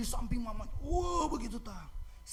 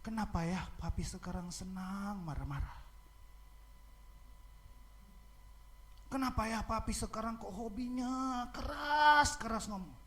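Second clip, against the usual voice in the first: put-on hurt child. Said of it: "Tahu apa yang dia katakan?".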